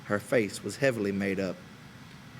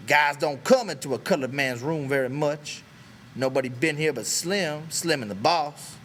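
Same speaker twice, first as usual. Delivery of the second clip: dark and bitter; 5 semitones higher, 4 dB louder than usual. A narrator's reading. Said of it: "Crook said darkly".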